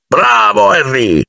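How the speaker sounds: mild approving roar. A narrator's reading. Hagrid praises the volunteer, roaring approval lightly. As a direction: cheer him on heartily. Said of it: "ruggì Hagrid".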